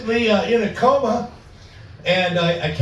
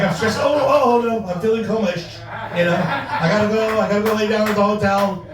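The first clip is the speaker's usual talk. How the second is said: faking a coma relapse; 3 semitones higher than usual. Retold or imitated. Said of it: "acted like the coma was coming back".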